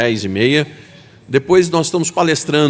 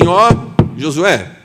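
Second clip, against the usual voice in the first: higher, light teasing voice for God; God teasing Joshua; 8 semitones higher than usual. Acted. God gently teasing old Joshua about aging, higher and playful. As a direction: tease him fondly about his age. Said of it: "E Deus chega pro seu servo e diz assim".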